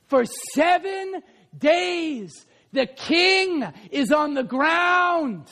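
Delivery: high, shouted, slowed preaching; preaching at full force. Real, not acted. Preacher cries out to the congregation about the fallen king. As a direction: cry it out in disbelief. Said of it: "preacher at full force".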